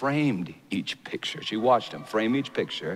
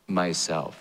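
deep and low; 4 semitones lower than usual. Acted. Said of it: "very deep and low".

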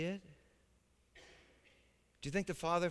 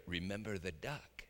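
soft, low whisper; whispered threat; 6 semitones lower, 9 dB quieter than usual. Retold or imitated. Sister Sally whispering a threat in Johnny's ear. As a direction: lean in and threaten him softly. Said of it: "she whispered in Johnny's ear".

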